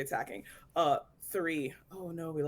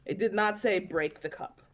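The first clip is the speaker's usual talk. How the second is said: put-on Irish accent. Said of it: "why the Irish accent?".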